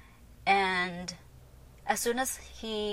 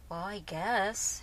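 slow, grudging concession; drawn-out reluctant agreement; unhappy, reluctant mom; 5 dB quieter, much slower than usual. Retold or imitated. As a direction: concede slowly, imitating a displeased mom. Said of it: "she wasn't too happy".

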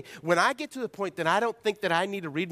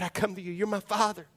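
a prayer said as an example, higher and earnest; sorry, sincere prayer before God; humble confessing prayer; 4 semitones higher than usual. Shown as a demonstration. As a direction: pray it aloud as a sincere confession. You can come before God.

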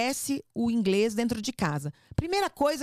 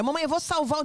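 filha imitada; 6 semitones higher than usual. Retold or imitated. Imita a filha falando errado.

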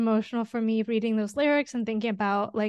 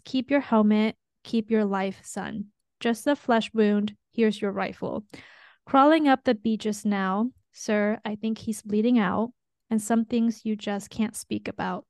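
reading lyrics aloud. Shown as a demonstration. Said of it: "So let me just read the lyrics".

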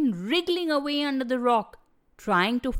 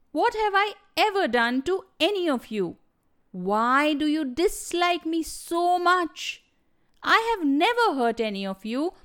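higher, hurt reproach; angry but hurt; 4 semitones higher than usual. Acted. Snake confronts the animals who wronged him, angry but hurt. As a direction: confront them, wounded and indignant. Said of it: "He sounded angry, but also hurt".

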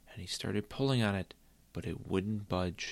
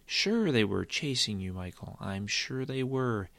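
a touch of indulgent disbelief; sarcastic mother; 3 semitones higher than usual. Acted. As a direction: say sure without meaning it.

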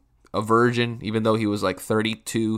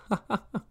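awkward giggle; 11 semitones higher, 8 dB quieter than usual. Retold or imitated. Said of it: "that awkward giggle".

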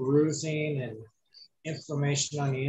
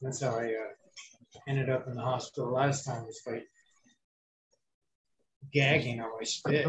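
rough, scratchy post-surgery voice; gravelly voice. Real, not acted. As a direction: speak with a raspy, hoarse throat. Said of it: "you sound a little gravelly".

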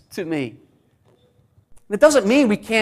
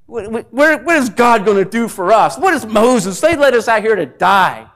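mock complaint; 4 dB louder than usual. Israelites complaining, louder.

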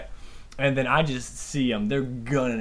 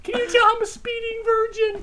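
high, cracking laughter; laughing; 5 dB louder than usual. Real, not acted. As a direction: laugh through the words.

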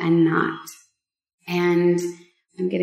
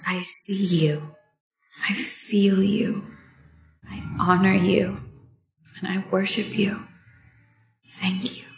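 tender whisper. Retold or imitated. Voicing his silent tender message.

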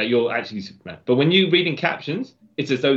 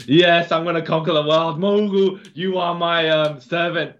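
sneering panto villain; 4 semitones higher than usual. Retold or imitated. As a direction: gloat like a cartoon supervillain. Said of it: "full on, like, as though he's Doctor Doom".

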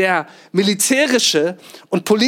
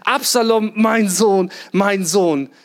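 grieving lament; 2 semitones higher than usual. Retold or imitated. David mourning his son, mild lament. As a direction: cry out mildly for the lost son. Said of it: "und er klagt".

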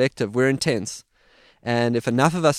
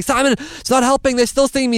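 retold panic; 9 semitones higher, 4 dB louder than usual. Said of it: "I'm saying".

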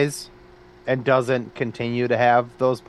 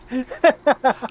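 plain; 12 semitones higher, 4 dB louder than usual. Real, not acted. Repeat of request, louder.

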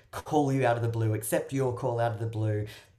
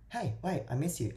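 missing island; 5 semitones higher, 4 dB quieter than usual. Retold or imitated. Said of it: "becomes a bit more like".

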